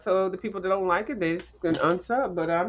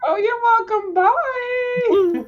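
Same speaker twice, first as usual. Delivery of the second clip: high, bright farewell, much higher; sing-song goodbye; 6 dB louder, much slower than usual. Real, not acted. Cheerful goodbye on leaving call.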